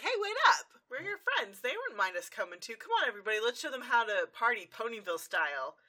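high, loud, brash call to the group; rally everyone like a pushy pal; eager shout. Retold or imitated. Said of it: "and Rainbow Dash is like".

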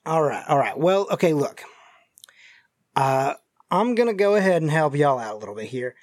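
folksy Southern stranger, choosing words carefully; injured Southern stranger. Acted. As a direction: play a cagey, folksy Southerner hinting at danger. GM voices the injured man.

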